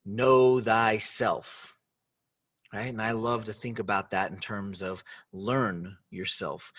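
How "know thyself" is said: know thyself drawn out very slowly; slow meaning. Shown as a demonstration. Translating Socrates for the audience, very slow and deliberate. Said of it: "and that means".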